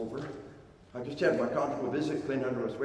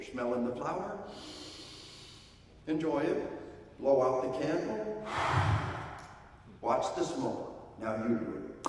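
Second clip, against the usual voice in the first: put-on modeling for a child. Shown as a demonstration. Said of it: "models the behavior".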